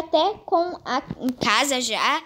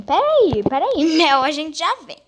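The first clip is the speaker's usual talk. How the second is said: laughing hurry; 5 dB louder than usual. Real, not acted. Baby wants a bath, hurrying.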